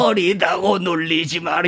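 lightly voiced elderly singer, slow and soft; old person voice. Shown as a demonstration. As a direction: sing it like an eighty-year-old. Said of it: "한 팔십 되신 분이".

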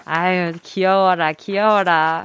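low, slow doting murmur to oneself; fond cooing. Real, not acted. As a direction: melt over how cute the caller was. Host dotes after the call ends. (귀여워서 낮고 느리게 흐뭇해하는 말투)

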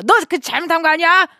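a dad who can't believe he lost; hurt father. Retold or imitated. Father asking his daughter if she checked wrong, hurt and suspicious. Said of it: "되게 서운해하시더라고요".

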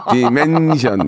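playful drawn-out robot diction; mock AI pronunciation with long syllables; AI voice impression. Shown as a demonstration. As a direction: mimic a machine reading, amused. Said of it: "에이아이 발음으로 한번 다시".

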